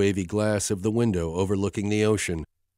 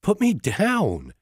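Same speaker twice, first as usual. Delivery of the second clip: much higher, slow, giggling through it; 11 semitones higher, 3 dB louder, slower than usual. A narrator's reading. Carried off by Hunter, Emma giggling protest. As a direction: squeal it out between giggles. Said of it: "she giggles".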